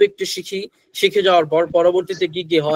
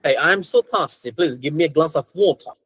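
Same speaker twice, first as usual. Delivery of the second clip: British accent, slow demonstration with r-less water; much slower than usual. Shown as a demonstration. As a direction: slowly model British English, silent r in water. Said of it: "they usually say".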